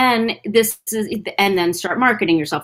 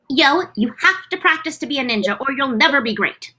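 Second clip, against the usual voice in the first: Anna voice; 4 semitones higher than usual. Acted. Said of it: "Anna in, from Shaman King".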